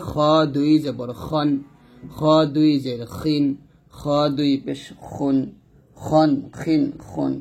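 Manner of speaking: full throaty "খ" throughout; thick, heavy "খ". Shown as a demonstration. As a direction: scrape the kh in "খন, খিন, খুন". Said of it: "খটা মোটা করে উচ্চারণ হবে".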